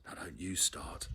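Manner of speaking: said under his breath; quiet mimic of mother. A narrator's reading. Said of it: "said Jeremy James quietly".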